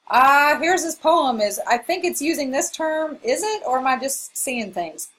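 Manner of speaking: tentative and high, checking with the teacher; unsure student. Acted. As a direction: lightly act out a puzzled student second-guessing themselves. Voicing an unsure student asking.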